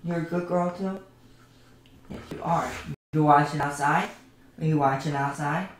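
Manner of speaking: cooing praise at a pet. Real, not acted. Streamer cooing to her dog Tails, sing-song.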